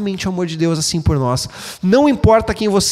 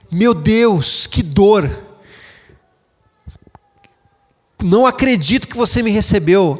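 mild imitated desperate sob, a bit higher and strained; desperate crying; 3 semitones higher than usual. Shown as a demonstration. Pastor imitates the son's desperate crying at reunion. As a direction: act out the son's broken cry, understated. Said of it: "Não, é aquele choro de".

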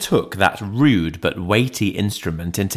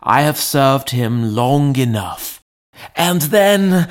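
higher, worked-up servant voice; agitated butler; 8 semitones higher, 4 dB louder than usual. A narrator's reading. Servant pouring out his fears to the lawyer, agitated. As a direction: build to an unfinished "and then". Butler speaks in told story.

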